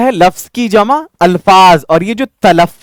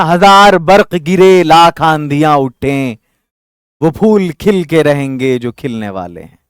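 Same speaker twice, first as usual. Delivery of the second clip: reciting a couplet. Shown as a demonstration. Teacher reciting Tahir Ludhianvi's couplet to students, poetic. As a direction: recite the verse with a slight lift. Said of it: "Tahir Ludhianvi ने कहा था".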